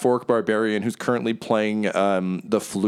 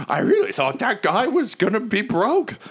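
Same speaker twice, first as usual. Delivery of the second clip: gossiping waiter; 12 semitones higher than usual. Acted. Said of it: "he's like".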